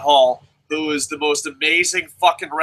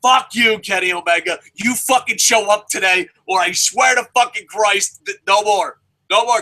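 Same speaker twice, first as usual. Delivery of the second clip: raised-pitch, heated fan rant; fed-up ultimatum; 3 semitones higher than usual. Real, not acted. Fan warning Kenny to show up today, heated ultimatum. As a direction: lay down an angry ultimatum.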